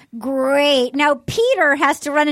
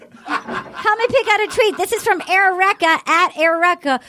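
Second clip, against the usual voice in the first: laughing; 5 semitones higher than usual. Real, not acted. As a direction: laugh through the words. Still giggling, slowed.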